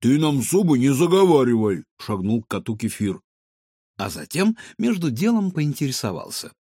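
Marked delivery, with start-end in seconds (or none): 0.0-1.8 stern. Acted. Kefir stops cat's chatter.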